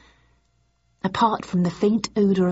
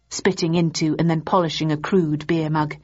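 ordinary delivery

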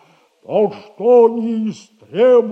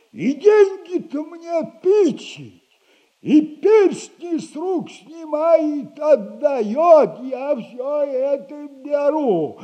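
animated retelling; 6 semitones higher than usual. Acted. Acts out the terrified woman's panic.

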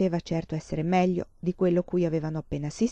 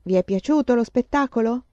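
cheery higher-pitched query; cheerful; 4 semitones higher than usual. A narrator's reading. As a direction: greet them all jolly and pleased. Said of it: "tutto allegro".

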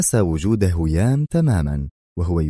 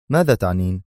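calm question. A narrator's reading. He asks what she means, calmly. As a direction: ask evenly, without agitation. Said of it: "سألها في هدوء".

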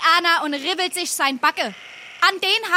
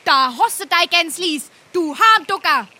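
angry scolding; 6 dB louder than usual. Acted. Angry girl scolds and slaps him.

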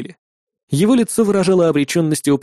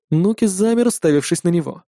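ordinary delivery

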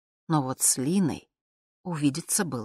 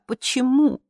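pleading; 8 semitones higher, 6 dB louder than usual. Acted. Pleading question repeated.

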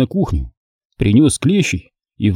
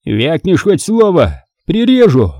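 higher, slow menace; threatening; 6 semitones higher, slower than usual. Acted. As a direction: warn him he'll knife him. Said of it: "пригрозил маньяк".

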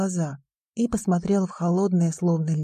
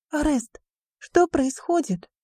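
frightened whisper; 8 semitones higher than usual. A narrator's reading. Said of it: "прошептала Риона".

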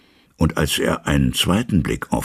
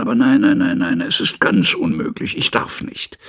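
anguished refusal. A narrator's reading. Jekyll refuses in distress.

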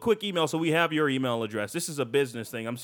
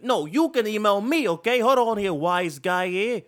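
higher, louder wise-guy voice; mock tough guy challenge; 5 semitones higher, 4 dB louder than usual. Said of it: "He's like".

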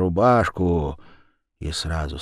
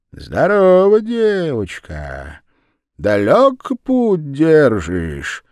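голос Верявы; 7 semitones higher, 6 dB louder, slower than usual. A narrator's reading. Верява окликает девочку.

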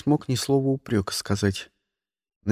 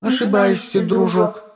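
high, louder smug AI; 5 semitones higher, 4 dB louder than usual. Acted. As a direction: speak as a cocky ship AI. (голос самоуверенного ИИ)

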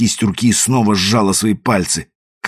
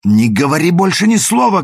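shouted; 9 semitones higher than usual. A narrator's reading. Woman shouting at her lover to be silent. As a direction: cry out to stop him. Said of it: "крикнула она".

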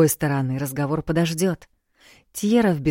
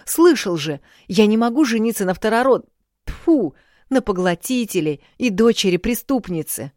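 heated anger; 4 semitones higher, 4 dB louder than usual. Acted. Prince argues heatedly with cousin.

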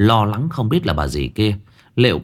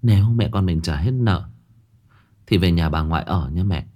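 gentle; 4 semitones lower than usual. Acted. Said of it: "Bà Trang dịu dàng".

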